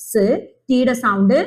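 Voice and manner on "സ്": സ് as a lone "s" sound with a short vowel release; letter sound of S. Shown as a demonstration. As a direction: give just the phonic sound സ്, "suh". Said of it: "എസിന്റെ sound". (സ് എന്ന അക്ഷരശബ്ദം മാത്രം)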